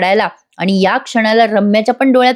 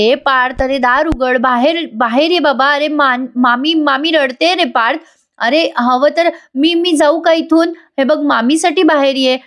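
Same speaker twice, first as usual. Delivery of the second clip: pleading cousin; 4 semitones higher than usual. Acted. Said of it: "रम्या म्हणत असते". (रम्या पार्थला दार उघडण्यासाठी हळू, उंच आवाजात विनवते)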